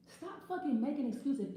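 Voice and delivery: slow, emphatic scolding; angry. Real, not acted. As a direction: drag each word out at him. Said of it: "This is sounding kind of angry".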